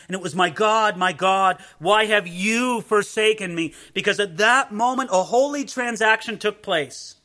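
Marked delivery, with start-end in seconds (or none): 0.3-3.7 louder anguished cry. Acted. Preacher voicing Jesus' cry of forsakenness, louder. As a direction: call it to God in anguish. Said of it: "He cried out".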